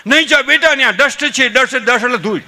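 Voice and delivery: mock alarm at the dust; fussing grandparents. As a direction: grandparents rushing to stop the child playing in dust, loud and high. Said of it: "બધા ડોટું કરે".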